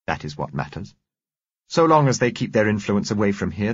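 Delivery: stony, emphatic pronouncement. A narrator's reading. Woman condemning those who left the community, stony. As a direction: close the subject with stony disapproval. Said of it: "She replied stonily".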